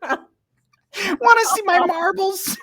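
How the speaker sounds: a teasing come-on, drawn out high and slow; mock pickup line. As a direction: play a sleazy flirt asking to see his marbles.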